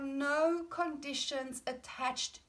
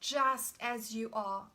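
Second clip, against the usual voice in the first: slow tender affirmation; 3 dB louder, slower than usual. Shown as a demonstration. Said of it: "It is an".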